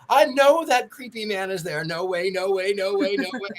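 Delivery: refuse, still spooked; frightened refusal. Retold or imitated. Contestant refusing to go towards the light, frightened refusal. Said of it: "Go to".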